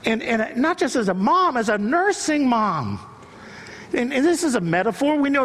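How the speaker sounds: high, ringing sermon delivery; impassioned preaching. Real, not acted. Preacher declares God's "I am what I am" to congregation, impassioned. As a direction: preach it up to a climax, pitch held high.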